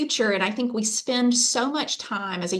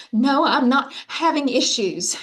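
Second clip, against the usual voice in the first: tearful student; 5 semitones higher, slower than usual. Retold or imitated.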